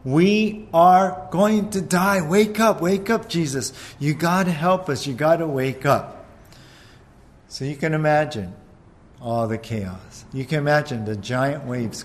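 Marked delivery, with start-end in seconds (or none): 0.0-6.2 panicked pleading. Acted. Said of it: "they're running back there and saying".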